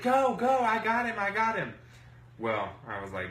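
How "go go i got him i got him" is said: loud, high, urgent imitation; mimicked urgent calling. Rival blocking the door for her partner, loud high mimicry.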